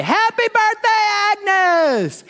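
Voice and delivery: high, loud cheer; surprise shout. Retold or imitated. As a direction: shout it like the room is bursting out.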